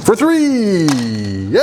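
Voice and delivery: high, loud cheer of the roll; excited shout. Real, not acted. Big dice roll moment.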